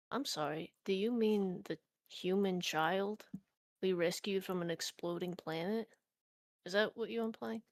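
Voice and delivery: suddenly serious. Retold or imitated. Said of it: "jokiness he had a second ago just completely evaporates".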